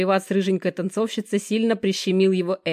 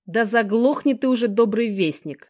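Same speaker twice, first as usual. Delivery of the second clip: loud, higher, slowing angry growl; 5 semitones higher, 4 dB louder than usual. Acted. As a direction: snarl at him to shut up. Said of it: "прорычал Жека".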